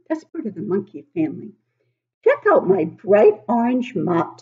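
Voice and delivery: a hint of a cheeky ape bragging about its hair; baby orangutan voice. Reading to children as Minari the orangutan, lightly voiced.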